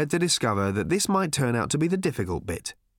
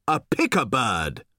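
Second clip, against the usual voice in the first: a lightly voiced old man, slow and knowing; measured old villager's voice; old Thrashbarg; slower than usual. A narrator's reading. Old Thrashbarg interrupting Arthur and Ford, slow and knowing. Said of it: "said another voice".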